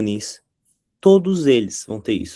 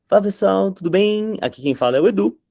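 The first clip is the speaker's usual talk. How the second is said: Edu's intro; 6 semitones higher than usual. Retold or imitated. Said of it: "com a mesma entonação".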